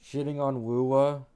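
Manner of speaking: loud, excited burst; loud outburst. Real, not acted. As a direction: blurt it out loud. Streamer reacts loudly.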